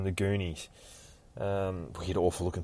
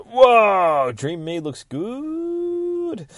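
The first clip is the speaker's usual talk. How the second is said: awed mock gasp; 12 semitones higher, 6 dB louder, much slower than usual. Lucy admiring her reflection.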